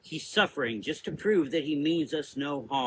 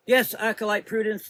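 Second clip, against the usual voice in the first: higher, louder group reply; sisters answering; 8 semitones higher, 5 dB louder than usual. A narrator's reading. Sisters answering Prudence, obedient.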